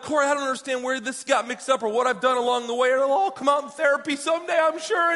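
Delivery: high-pitched exasperated rant, retold; bothered muttering. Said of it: "muttering to myself and stuff".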